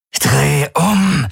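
high, harsh command; barking order. A narrator's reading. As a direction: snap the order at him. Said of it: "herrschte er ihn an". (scharf anherrschen)

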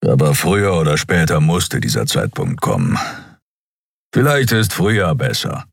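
a touch milder, still gruff Keru; grudgingly milder tone. A narrator's reading. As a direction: soften the grumble slightly. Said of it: "Etwas milder fügte er hinzu".

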